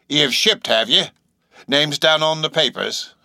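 high-pitched seaman, slowing down; musing sailor stranger; eccentric old sailor, resigned. A narrator's reading. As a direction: draw it out with an ominous shrug. Stranger muses on signing.

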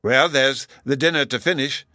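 a touch of genial confusion; bewildered smile. A narrator's reading. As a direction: answer with a puzzled smile. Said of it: "said with a bewildered smile".

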